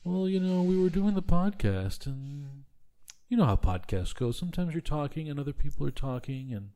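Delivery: droning, monotone sleepy talker. Retold or imitated. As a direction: drone on flat and sleepy. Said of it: "in, like, this very monotone voice".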